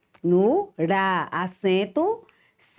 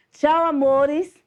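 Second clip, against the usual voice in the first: bright goodbye; 5 semitones higher than usual. Real, not acted. Teacher's sweet goodbye to children.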